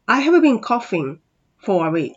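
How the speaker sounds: slow chunked model reading. Shown as a demonstration. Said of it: "言ってみます".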